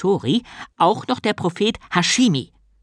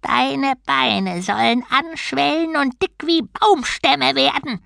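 slow, high-pitched angry curse; hissed curse; 10 semitones higher, slower than usual. A narrator's reading. Turtle god curses the doubting novice, hissed. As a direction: pronounce a spiteful curse, drawn out. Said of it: "fauchte die Schildkröte".

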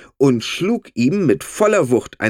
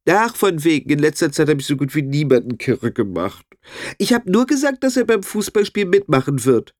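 sly high character voice; 4 semitones higher than usual. Acted. Pepe character voice.

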